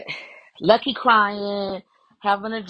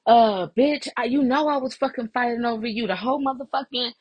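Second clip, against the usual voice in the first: higher-pitched indignant retelling; mock indignant tirade; going off; 5 semitones higher than usual. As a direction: imitate an outraged friend ranting. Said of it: "is going off like".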